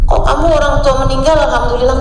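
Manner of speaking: taken aback, voice lifting; puzzled surprise. Retold or imitated. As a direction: question it in mild disbelief. Startled reply to death news.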